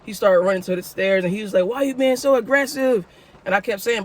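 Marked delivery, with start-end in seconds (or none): 1.6-3.1 whiny thief. Retold or imitated. Thief voiced whining.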